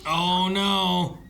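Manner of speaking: loud shocked outcry. Real, not acted. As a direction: cry out in alarm. Reacting to onscreen fight.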